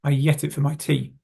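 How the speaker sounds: "yet" for ate, joined onto I; connected "yet it for my tea"; linking Y. Shown as a demonstration. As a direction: slide from I into "yet". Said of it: "it has a linking sound there".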